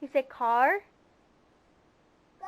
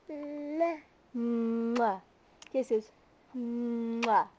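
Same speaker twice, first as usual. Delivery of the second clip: blowing kisses; 4 semitones lower, much slower than usual. Shown as a demonstration. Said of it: "Can you give kisses?".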